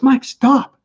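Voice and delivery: friend stopping him. Retold or imitated. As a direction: cut him off mid-stride.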